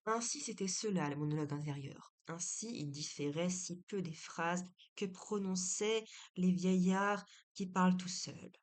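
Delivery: measured, emphatic story narration; deliberate read-aloud delivery with firm phrase openings; literary reading. A narrator's reading. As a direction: read the novel aloud firmly, pausing between phrases. Reads a literary excerpt aloud.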